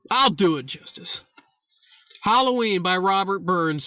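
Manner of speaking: stagey mock-Irish announcement; lilting, imitated Irish; put-on Irish accent. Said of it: "I will put on my Irish accent".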